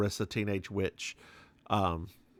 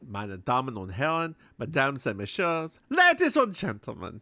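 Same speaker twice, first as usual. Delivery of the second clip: cabaret emcee. Acted. Emcee announcement in three languages.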